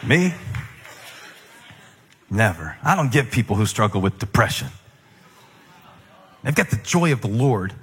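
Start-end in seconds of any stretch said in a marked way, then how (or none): 2.3-7.7 smug churchgoer. Pretend.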